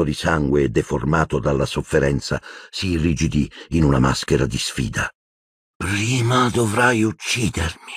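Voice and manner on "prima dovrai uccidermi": defiant murmur. A narrator's reading. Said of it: "mormorò Sirius".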